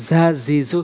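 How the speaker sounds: "ঝা ঝি ঝু" with a strong buzzing z; precise letter sound. Shown as a demonstration. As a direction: articulate "ঝা ঝি ঝু" carefully, z-like. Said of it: "সঠিকভাবে উচ্চারণ করব".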